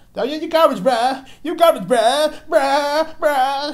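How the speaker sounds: very high, drawn-out billy-goat bleating sound. Complaining about how new kids talk, the speaker imitates them as bleating billy goats. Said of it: "they all sound like fucking billy goats".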